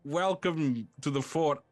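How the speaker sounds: high, theatrical, effusive welcome; lonely stone head, thrilled to have company; lonely living fort. Acted. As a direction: greet rare visitors in a grand character voice. Game master plays the fort.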